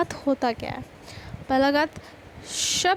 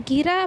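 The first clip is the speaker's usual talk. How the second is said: गिरा with force on the second syllable रा; stress on रा; 4 semitones higher than usual. Shown as a demonstration. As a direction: lean on the रा in गिरा. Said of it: "रा पर force पड़ रहा है".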